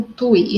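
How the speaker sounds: "tui" said as a single stressed beat; TUI as one syllable. Shown as a demonstration. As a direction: glide from u to i in "tui". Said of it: "a sílaba tônica é".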